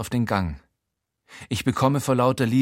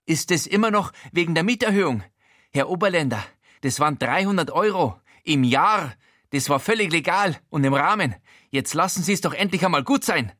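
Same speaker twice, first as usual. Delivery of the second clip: higher, fast defensive plea; exasperated landlord, higher and fast; whiny landlord; 7 semitones higher than usual. A narrator's reading. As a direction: wheedle and justify himself.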